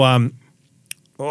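ordinary delivery

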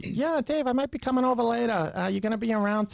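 high, exaggerated Boston brother voice; thick Boston accent. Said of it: "is so much thicker".

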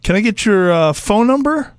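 nervous eager uptalk. Pretend. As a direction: sound like a flustered new hire asking again. Prank caller feigning new employee.

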